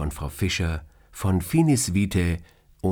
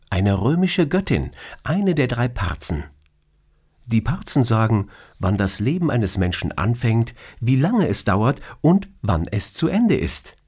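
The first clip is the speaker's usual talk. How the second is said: higher, playful female voice, mock scolding; teasing boss; 5 semitones higher than usual. Boss teasing her employee about his dream, playfully higher. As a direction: tease him like an amused boss.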